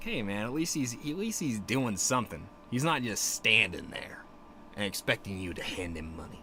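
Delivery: plain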